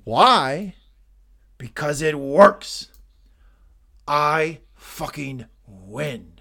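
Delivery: loud, slow, deliberate menace; lightly voiced stern father; cold Logan. Acting Logan's cold reply.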